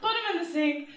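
high and laughing, slowed; giggling recount. Real, not acted. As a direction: laugh through the words. Laughing while telling.

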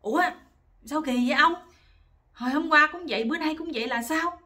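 loud, high indignant questioning; acted-out angry scolding; furious wife. Wife confronts husband over a second failed night, furious. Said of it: "bà giận tím mặt luôn, bà nói".

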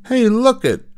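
high, excited schoolboy voice; excited boy's cry. Acted. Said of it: "cried Butch".

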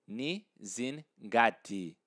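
"Ni zingati" slowly, broken into pieces; slow, separated "ni, zin, gati"; slow model. Shown as a demonstration. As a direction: spell out "Ni zingati" for a learner, part by part. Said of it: "I like to say it fast".

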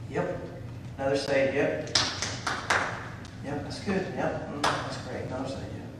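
soft, unimpressed mumble, barely caring; bored mock approval. Churchgoer mocks congregation yawning at a salvation, bored mumble. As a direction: mimic a jaded churchgoer shrugging off news. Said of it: "it becomes old hat".

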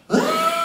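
very high, loud scream of sudden pain. Retold or imitated. Shaving cream hitting the speaker's eyes, high loud pained scream. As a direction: yelp like shaving cream just hit your eyes. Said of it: "I'm just screaming like a crazy person".

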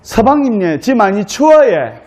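Gyeongsang dialect bride, lightly acted; Gyeongsang accent. Cold bride complains to her husband in Gyeongsang accent. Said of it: "경상도 신부가 경상도 신랑에게".

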